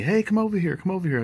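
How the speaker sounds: a hint of the lady calling out; retold call. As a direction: holler him over from the porch. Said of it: "yells to me".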